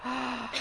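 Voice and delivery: soft, amused "ahh" of delight; savoring sigh. Shown as a demonstration. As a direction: sigh softly over a remembered treat. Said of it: "we can all go".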